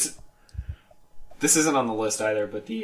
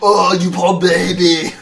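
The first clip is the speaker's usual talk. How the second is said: mock pity; 6 semitones higher, 9 dB louder, slower than usual. Mock sympathy, laughing.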